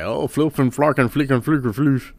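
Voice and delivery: mock the prim elder's made-up clean cussing; Bill Cosby impression. Comedian mimics the old star scolding about cursing. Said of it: "and he was like".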